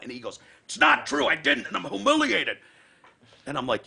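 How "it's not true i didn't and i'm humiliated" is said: high, loud mock plea of shame; ashamed friend. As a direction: wail it like a caught kid. E denying.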